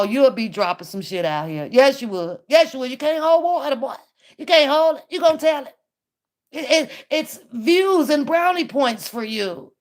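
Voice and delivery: ordinary talk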